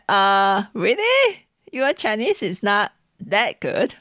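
lightly mimicked skeptical cabbie; imitated doubting driver. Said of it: "And they say".

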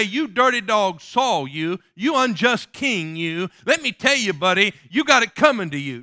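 loud, mocking, disrespectful jeer; smart aleck tone. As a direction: sneer it at the king like a cheeky upstart. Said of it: "with some smart aleck tone".

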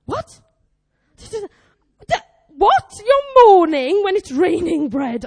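gape, then exclaim slowly and loudly; incredulous. Retold or imitated. Preacher rereading the passage about raining bread, incredulous. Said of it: "then I read again. I was like".

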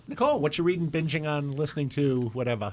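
slipping into a New Jersey accent; casual New Jersey accent, like a local ad. Real, not acted. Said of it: "Why am I doing a New, New Jersey accent?".

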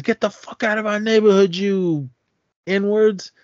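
high yelled slur, hammed-up retelling; mock yell. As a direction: bark it out like a street kid chasing a bus. Kid yelling slurs at bus.

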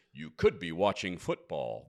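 slow announcer-style read; low, slow voiceover line; demo read. Shown as a demonstration. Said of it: "try it like this".

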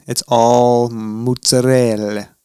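bad Italian accent, slowed down. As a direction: ham up a terrible Italian accent. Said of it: "Your Italian accent is terrible".

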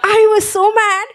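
high, laughing through the words; real laugh in the voice. Real, not acted. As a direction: still giggling as you say it. Laughing while telling it.

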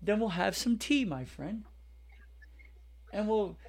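mock British. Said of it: "Do you wanna do a spot of a podcast today?".

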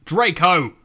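a mock call across the forest; a half-hearted shout of Draco; shouted name. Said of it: "I shouted".

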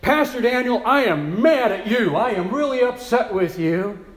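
mock an annoyed churchgoer confronting her pastor; upset parishioner. Parishioner confronting her pastor in his office, mildly indignant. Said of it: "and she said".

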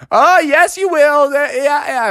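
high-pitched cheeky rebuttal; contradicting Froggy. Acted. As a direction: argue back eagerly. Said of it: "Froggy was like".

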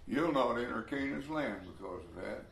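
soft whispered verdict; God's verdict on Moses, whispered; whispered judgment. Retold or imitated. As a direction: whisper the sentence gravely.

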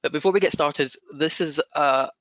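his own broad Scottish accent. Real, not acted. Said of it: "apologise in advance for my broad Scottish accent".

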